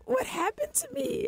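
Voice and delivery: self-questioning quote. Retold or imitated. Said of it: "And I'm like".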